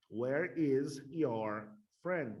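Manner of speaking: very slow, each word set apart. Shown as a demonstration. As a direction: spell out the sentence word by word for learners. Teacher models sentence word by word.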